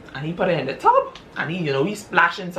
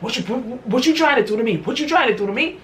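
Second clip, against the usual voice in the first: much higher, rising fear, speeding up; frightened accusation; 7 semitones higher, faster than usual. Retold or imitated. Wife accusing her husband in the tub, high and frightened. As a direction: back away from him, scared.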